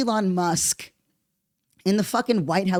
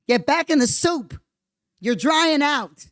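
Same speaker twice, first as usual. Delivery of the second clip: higher, louder taunt; teasing scold, pitched up; mock scolding; 5 semitones higher, 3 dB louder than usual. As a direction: scold them like a little kid.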